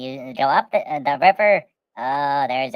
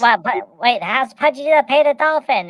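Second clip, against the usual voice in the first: higher, louder Pudgy panic; worried Pudgy; 8 semitones higher, 7 dB louder than usual. Retold or imitated. Pudgy worrying at the grocery, high and loud. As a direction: fret about paying the dolphin. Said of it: "Pudgy's like".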